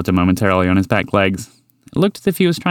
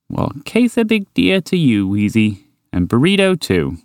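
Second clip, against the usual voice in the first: polite greeting. Acted. Horse greeting Wheezy with a polite smile, courteous. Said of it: "offered with a polite smile".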